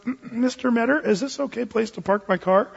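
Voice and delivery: lightly voiced nervous girlfriend; timid girlfriend. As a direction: mimic a shy young woman asking permission. Nervous girlfriend asks the dad.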